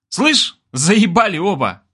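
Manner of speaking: high, drawn-out exasperated yell; fed-up bark. A narrator's reading. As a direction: tell both off, stretching the words. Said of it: "рявкнули мы с Иркой".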